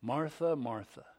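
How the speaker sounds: gentle, falling repeat of the name; compassionate. Acted. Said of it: "with compassion in his voice".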